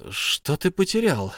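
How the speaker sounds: insisting. A narrator's reading. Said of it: "настаивал Бильбо".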